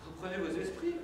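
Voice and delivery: soft, level, reassuring repeat; calm reassurance. Acted. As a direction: say it gently to settle him.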